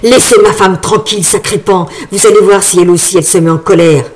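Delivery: put-on old man shouting. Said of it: "en criant".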